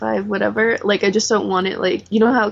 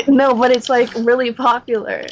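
laughing; 2 semitones higher, 4 dB louder than usual. Real, not acted. Laughing insistence to friend.

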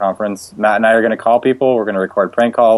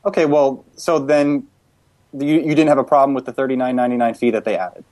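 slightly raised, polite customer-service voice; prank caller voice; 4 semitones higher than usual. Pretend. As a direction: play an HP customer-service rep, raised a touch. Prank call as HP rep.

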